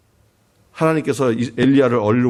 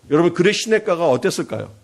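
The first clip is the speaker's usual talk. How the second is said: usual speaking voice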